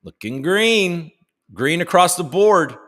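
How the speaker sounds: mock market hype. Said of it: "we're gonna go".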